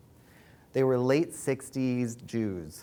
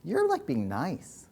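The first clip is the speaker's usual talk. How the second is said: incredulous friend; 6 semitones higher, slower than usual. Retold or imitated. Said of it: "She was like".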